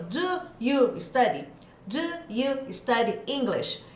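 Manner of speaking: "Do you study English?" with every word spelled out, slow and separate; careful full form. Shown as a demonstration. Teacher showing the stiff way students say it. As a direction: say "Do you" fully, slowly, like a textbook. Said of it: "a gente não fala assim".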